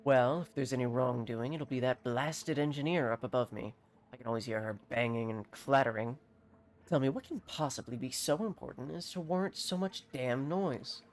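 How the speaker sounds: a touch of irritated formality; lightly voiced grumbling alchemist. Alchemist complaining about the noisy engineer above, mildly peeved. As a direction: grumble mildly in a measured character read.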